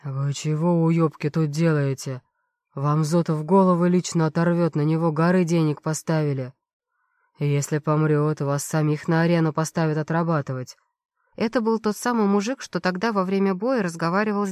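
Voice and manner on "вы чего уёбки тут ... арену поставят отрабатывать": angry doctor roaring at the guards; yelling doctor. Acted. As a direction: chew out the guards like a boss. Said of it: "Сразу заорал на охрану".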